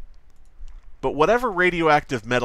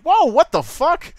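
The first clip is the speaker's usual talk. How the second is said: mock shock; 11 semitones higher, 6 dB louder than usual. Streamer imagining a newspaper headline about himself, hammed-up shock. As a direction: play it like reading your own absurd headline. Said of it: "and I'll be like".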